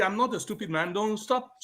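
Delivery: usual speaking voice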